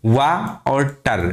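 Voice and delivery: "वा" and "टर" as separate slow syllables; teacher dividing water into "वा" and "टर"; split into syllables. Shown as a demonstration. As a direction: sound out "वा", then "टर", slowly. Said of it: "दो syllable हैं".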